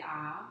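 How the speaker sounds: saying ahh. Shown as a demonstration. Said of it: "I'm gonna have you say".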